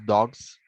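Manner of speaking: "dogs" with the final s forced toward a buzzing z; stronger final S. Shown as a demonstration. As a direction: end "dogs" on a firm, audible z. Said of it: "hace un poquito más de fuerza". ("dogs" con la s final fuerte, como z)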